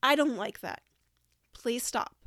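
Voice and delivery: calm assertive teacher voice; firm, not mean. Shown as a demonstration. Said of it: "you just have to say assertively".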